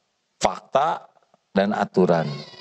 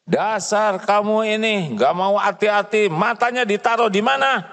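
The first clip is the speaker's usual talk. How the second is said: raised, berating the careless maid; angry scolding; 7 semitones higher than usual. Acted. Employer berating maid about broken plate, angry. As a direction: scold her for not being careful. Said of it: "Marah atau tegas?".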